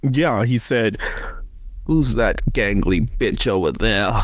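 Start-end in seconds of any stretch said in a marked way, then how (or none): 1.8-4.1 lightly voiced bad Southern accent, a bit slow; the monster sneering in a weak Southern accent. Monster insulting Tim, in a lightly done bad Southern accent. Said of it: "really bad Southern accent".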